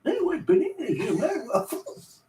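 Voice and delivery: high, laughing mimicry; silly old-person voice. Man copying his friend's waffle line, high laughing whine.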